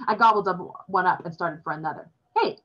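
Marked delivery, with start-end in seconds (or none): 2.4-2.6 snapped. A narrator's reading. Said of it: "father snapped".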